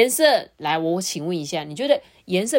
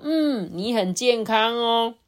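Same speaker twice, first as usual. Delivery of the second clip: lightly voiced doctor, higher and drawn out; slow, lifted reassurance to a patient; doctor's verdict; 5 semitones higher, much slower than usual. Doctor tells the little crocodile it is healthy, doctor's verdict. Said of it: "医生就说".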